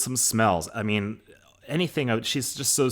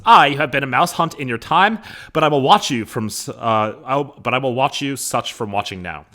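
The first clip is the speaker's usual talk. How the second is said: lightly acted, loud stage reading; Lady Capulet; 5 semitones higher, 8 dB louder than usual. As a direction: read her retort with raised voice. Lady Capulet's line read again, dramatically.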